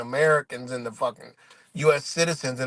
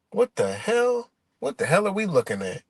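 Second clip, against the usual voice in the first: mock shock; 7 semitones higher than usual. A vlogger imitates travelers stunned by agents, mock shock. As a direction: play a bewildered traveler gasping at the sight.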